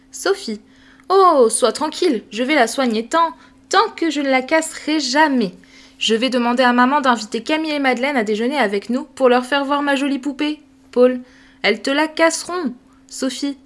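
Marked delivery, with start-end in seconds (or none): 1.1-10.6 put-on confident child. Sophie reassures Paul. 11.6-12.7 put-on boy warning. Paul warns.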